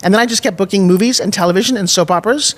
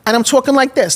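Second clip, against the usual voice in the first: lightly put-on New York accent, higher; 4 semitones higher than usual. Newcomer in Tulsa showing her talk, New York accent. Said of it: "I was a New Yorker".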